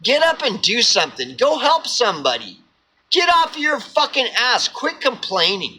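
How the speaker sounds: tough-love rant at himself, voice jumping up on the insults; stern scolding inner voice. Retold or imitated. His cynical self tells him to quit crying, a scolding rant. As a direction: scold yourself like a no-nonsense friend. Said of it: "my cynical self will look at me and be like".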